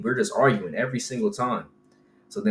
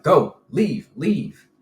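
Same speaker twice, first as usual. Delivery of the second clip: mock order; 4 semitones higher, 4 dB louder, much slower than usual. Retelling the man ordering him away.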